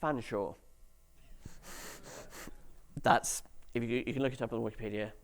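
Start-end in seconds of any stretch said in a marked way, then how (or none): 0.0-0.5 "Fanshawe" said as just two syllables, FAN-shaw; surprising pronunciation. Shown as a demonstration. Speaker reveals the word's centuries-old pronunciation to the audience, plain two-syllable pronunciation. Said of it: "This word is pronounced".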